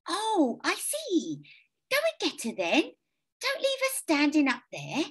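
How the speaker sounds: put-on high kindly old lady; sweet elderly neighbour, lilting. A narrator's reading.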